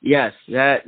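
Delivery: ordinary delivery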